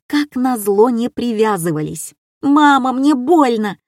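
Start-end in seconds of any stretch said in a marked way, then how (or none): 2.4-3.8 высокий громкий детский крик; крикнуть маме от боли; крик мальчика. A narrator's reading. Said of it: "закричал мальчик лет шести". (мальчик кричит маме, что больно)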